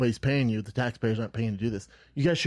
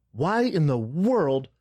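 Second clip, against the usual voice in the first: slow, drawn-out mock disbelief; retold exasperation; 3 semitones higher, much slower than usual. Rider replying to the mask demand, exasperated. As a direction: spell out the exasperation slowly.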